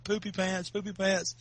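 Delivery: lightly retold taunt at normal volume; mild teasing. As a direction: imitate needling a little kid. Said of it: "I started making fun of him".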